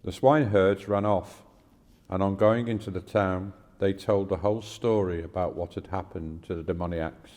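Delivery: measured, clearly projected Bible reading; scripture reading. Acted. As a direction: read the passage aloud formally, pausing between phrases. Reads a scripture passage aloud.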